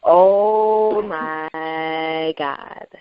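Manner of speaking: very slow, drawn-out astonishment; stunned reaction. Real, not acted. Hearing the ring ropes are barbed wire, real stunned reaction. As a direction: stretch every word out in shock.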